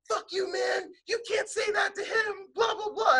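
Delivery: put-on white kid voice. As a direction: play an indignant white kid sticking up for a friend. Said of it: "That's my white person voice. Or my white kid voice".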